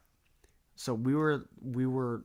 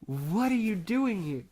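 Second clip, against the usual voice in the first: Mario voice; 8 semitones higher, 4 dB louder than usual. Retold or imitated. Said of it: "And I'm like".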